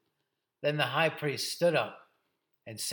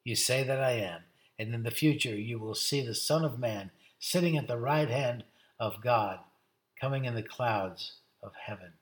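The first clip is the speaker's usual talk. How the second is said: low, measured pronouncement; solemn declaration; 4 semitones lower than usual. Acted. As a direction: declare it with calm certainty. Jesus replies to high priest.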